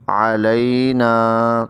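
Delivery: علینا very slowly, the ع from the throat; careful slow recitation. Shown as a demonstration. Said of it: "عین کا بھی خیال رکھنا ہے". (حلق سے عین)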